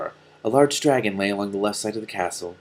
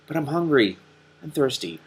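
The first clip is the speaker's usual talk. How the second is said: lightly voiced donkey; 4 semitones higher than usual. Donkey Killer's plaintive voice.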